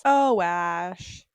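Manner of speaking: drawn-out mock disappointment instead of yelling; mild reproach. Kids reacting to Ash without yelling, mildly reproachful. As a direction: imitate a gently let-down 'oh' without raising the voice. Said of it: "didn't, like, yell at Ash".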